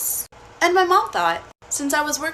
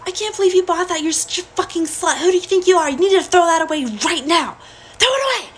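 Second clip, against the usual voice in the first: furious mother screaming, high and loud; mom yelling; 7 semitones higher, 4 dB louder than usual. Retold or imitated. Mom screaming at her teen daughter over an outfit, furious yelling. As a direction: rage at her daughter's outfit, rising to a shriek. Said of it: "as she's yelling at me".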